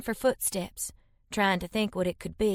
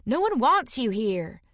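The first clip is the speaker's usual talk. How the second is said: furious; 3 semitones higher than usual. Acted.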